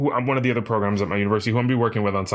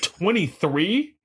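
slow, high, drawn-out disbelieving question; incredulous twenty-three; 7 semitones higher, much slower than usual. Retold or imitated. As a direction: stretch it out in shock. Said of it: "she said".

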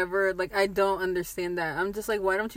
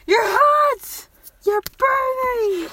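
higher, slow cartoon-style cry; SpongeBob quote; 14 semitones higher, 7 dB louder, much slower than usual. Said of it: "Fucking SpongeBob".

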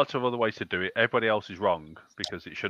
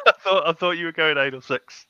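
blurted out through a burst of laughter, much higher and louder; cracking up mid-sentence in real amusement; laughing; 7 semitones higher, 5 dB louder than usual. Real, not acted. Laughing at the cup-of-tea pick.

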